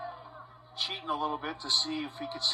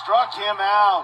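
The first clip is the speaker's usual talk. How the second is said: loud, higher, drawn-out strikeout call; big play-by-play shout; excited strikeout call; 5 semitones higher, 9 dB louder, much slower than usual. Real, not acted. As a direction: punch it out slowly for the crowd. Calling a late-game strikeout.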